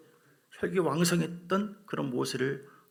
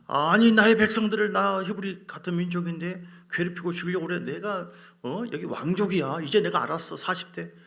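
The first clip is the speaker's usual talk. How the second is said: acted indignation, opening loud and high; mildly hammed-up righteous anger; indignant Moses; 4 semitones higher, 4 dB louder than usual. Preacher as Moses outraged for his people, indignant. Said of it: "화를 내면서 사람을 막 죽여버리고".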